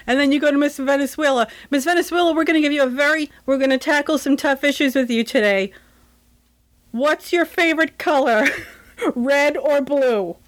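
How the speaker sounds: hammed-up emcee asking questions; pageant host.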